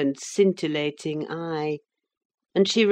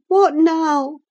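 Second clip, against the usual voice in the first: high, loud sick woman's voice, sharply put; a feverish girl turning cross; sudden irritation; 11 semitones higher, 8 dB louder than usual. A narrator's reading. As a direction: snap the question from a clouded mood. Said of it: "with a suddenly clouded brow".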